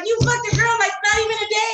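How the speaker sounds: hammed-up accusing shout as Rachel; Rachel yelling. Rachel yells at Ross over the girl in mock outrage. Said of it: "Rachel was like".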